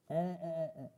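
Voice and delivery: humming to clear the throat; throat-clearing hum. Real, not acted. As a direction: clear a dry throat with hums. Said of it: "Got a bit overexcited".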